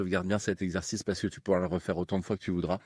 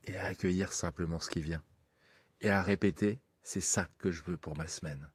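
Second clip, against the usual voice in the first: right in your ear. Acted. Leads a hypnosis session.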